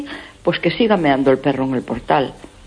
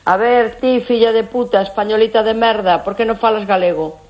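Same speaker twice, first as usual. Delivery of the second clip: mock Galician taunt; 5 semitones higher than usual. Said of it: "Así".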